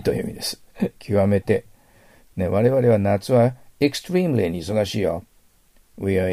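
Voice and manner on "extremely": extremely, stretched on a strong "TREE"; 極端なアクセント. Shown as a demonstration. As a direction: overdo the middle-syllable stress in extremely. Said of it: "アクセントは私ちょっと極端に言いますから". (「extremely」のアクセントを大げさに)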